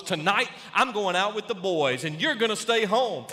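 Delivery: loud, bossy husband laying down the law; hammed-up bossy husband demanding supper; blustering husband. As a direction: bark orders like a puffed-up husband. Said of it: "he growls".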